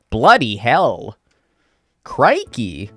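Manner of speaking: British slang in plain American, stretched out; straight American accent. Shown as a demonstration. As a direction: make no attempt at a British accent. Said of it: "gonna say straight American".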